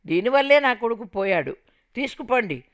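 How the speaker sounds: bitter mother-in-law yelling. Retold or imitated. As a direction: scream to send her away. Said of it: "కేకలు పెట్టింది".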